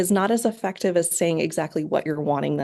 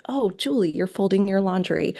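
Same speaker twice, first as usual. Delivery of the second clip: praising. Shown as a demonstration. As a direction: cheer the child on as you describe. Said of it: "praise them for it".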